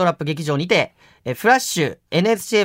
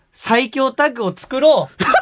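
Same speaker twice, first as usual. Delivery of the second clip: heated, pumped-up, high-pitched wrestling-promo style; 6 semitones higher than usual. Urging a partner to team up: fired up, heated. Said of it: "熱くなってる".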